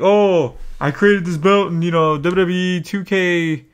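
lightly voiced smug fan, slowed in spots; a hint of a boastful gamer; mocking a proud fan. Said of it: "people were like".

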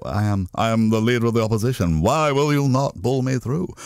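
a hint of an indignant Hague on the phone; mock-outraged opposition leader demanding to be put through, lightly done; lightly voiced William Hague. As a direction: prank caller voicing William Hague with mild indignation. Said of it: "the idea of the joke was meant to be".

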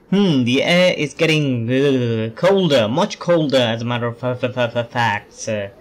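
stammering as if freezing; put-on stutter from the cold; shivering with cold. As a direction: play up a chattering, stuttering shiver. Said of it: "Why am I talking like this".

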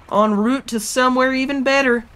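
lightly put-on southern pirate accent. Gamer sailing along, slipping into a mock southern pirate voice. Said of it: "I'm a southern pirate".

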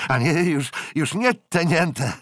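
loud high playful cry, slowing at the end; exclaiming. A narrator's reading. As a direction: call out in teasing delight. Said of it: "zawołał Jack". (głośny, rozbawiony okrzyk)

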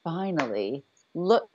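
mock delighted viewer; relieved gush. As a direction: savour the word fantastic slowly. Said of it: "I'm like".

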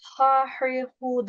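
"ha, hurry, hu" with a full open A; rejected reading of "ha, hurry, hu", broad vowels; wrong back vowels. Shown as a demonstration. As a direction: say "ha, hurry, hu" with thick Turkish vowels.

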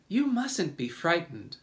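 high, kindly ladybug voice. A narrator's reading. Ladybug comforts frightened James, kindly reassurance. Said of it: "the ladybug said kindly".

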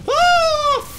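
sudden high-pitched scream; startled scream. Real, not acted. Dragon attacks suddenly.

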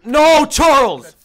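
loud high laughing yell; laughing shout. Real, not acted. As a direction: yell his name, laughing.

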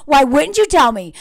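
imitated interrogating husband; put-on reproachful demand; mock accusatory. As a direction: press her with pointed questions, half-acted. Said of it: "Like, everything is accusatory".

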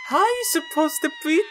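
high, exasperated cry; squealing in frustration; frustrated high yell. Real, not acted. Frustrated at game.

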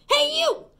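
high, loud challenge; grouchy shout. Acted. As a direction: call out like a cocky bully. Grouchy ladybug picks fights.

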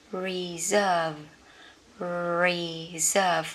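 reserve as ri-ZERV, stress on the second syllable; reserve said right. Shown as a demonstration. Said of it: "English words you may pronounce wrong". (đọc reserve là ri-dơ-vơ, nhấn âm sau)

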